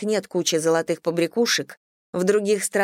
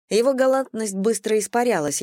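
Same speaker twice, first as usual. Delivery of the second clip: usual speaking voice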